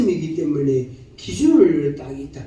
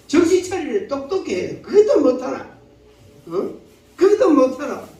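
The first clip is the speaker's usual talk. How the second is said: acted scolding, pitched up; blaming rebuke; 5 semitones higher than usual. Preacher acts out blaming another person, scolding rebuke. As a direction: tell someone off in a higher voice. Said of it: "비난하고".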